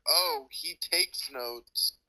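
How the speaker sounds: slow, dragged-out imitation of the remark; drawn-out mock quote. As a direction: stretch it out like a lazy quote. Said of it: "I said, I heard".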